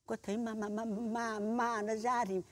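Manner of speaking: a scared sob held back, stuttering ma ma; whimpering fear. Acted. Frightened shaman begging villagers to report the ghost, whimpering softly. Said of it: "sao lại mếu máo sợ à".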